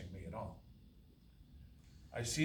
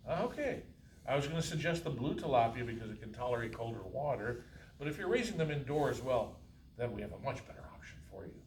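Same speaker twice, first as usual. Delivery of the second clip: eager clerk. Acted. Clerk explains fish options.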